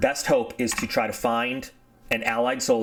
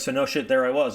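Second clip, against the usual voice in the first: mock storyteller; 14 semitones higher than usual. Pilot starts his war story.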